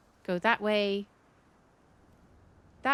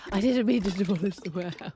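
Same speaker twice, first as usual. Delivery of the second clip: startled; much faster than usual. Real, not acted. Accidentally demolished warehouse, gasps.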